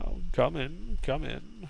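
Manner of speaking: lightly voiced old wizard, beckoning; a hint of an elderly host. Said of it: "waves you in, saying".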